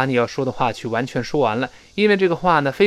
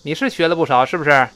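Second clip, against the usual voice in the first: a touch of huffy impatience; acted, grudging agreement; slightly displeased. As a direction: rattle it off as a mildly miffed girl. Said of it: "女孩呢有点不高兴，把这语气带出来".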